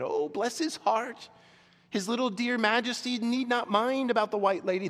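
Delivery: put-on high, whining old hag; shrill whining hag. Hag soothes his little majesty about the witch, shrill whine. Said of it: "And then the shrill, whining voice began".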